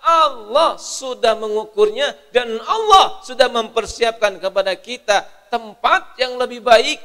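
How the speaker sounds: loud, high, impassioned preaching; preaching at full force. Acted. Preacher rousing grieving listeners, loud and impassioned. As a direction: drive it home to the crowd.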